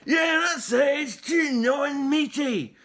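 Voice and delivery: loud, high triumphant yell. A narrator's reading. Viking shouts his found phrase, triumphant yell. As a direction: yell it like you found the word. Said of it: "yelled the man".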